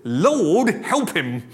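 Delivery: mock plea, Lord rising loud; old lady's plea. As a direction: call Lord, help him from the pew. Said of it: "she'd go".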